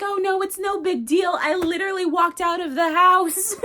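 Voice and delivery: a touch of Lucy's voice. Retold or imitated. Lucy voiced brushing it off.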